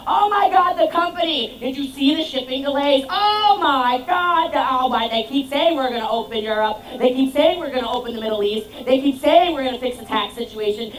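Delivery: high-pitched, loud whiny rant about the company; exasperated complaining. Retold or imitated. Distributor ranting about the pit crew and company in a high, loud whine. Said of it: "would go".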